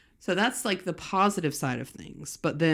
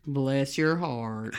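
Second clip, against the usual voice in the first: dry sarcastic; 2 semitones lower, much slower than usual. Shown as a demonstration. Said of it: "you would say".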